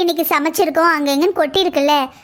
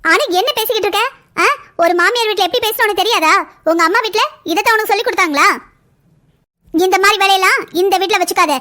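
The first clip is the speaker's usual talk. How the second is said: raised, scolding voice; scolding mother-in-law; 2 semitones higher than usual. Acted. Mother-in-law scolds her daughter-in-law, sharp and indignant. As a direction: tell her off sharply for talking back.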